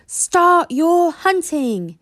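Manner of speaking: loud, slow bellowed command; yell. A narrator's reading. Gobber starting the hunt, a slow bellow. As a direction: bellow it across the field. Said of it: "yelled Gobber the Belch".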